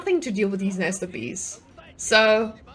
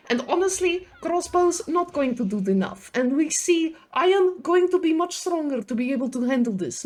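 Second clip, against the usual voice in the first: lightly put-on Serbian gym bro accent, slipping a bit Russian; rough Serbian accent. Caster does the Serbian gym bro voice for chat, a rough Serbian accent. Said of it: "That was a rough Serbian accent".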